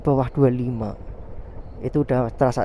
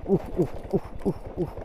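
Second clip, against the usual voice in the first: on a bumpy road; 5 semitones higher, 6 dB quieter, faster than usual. Real, not acted. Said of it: "menguji perut ya".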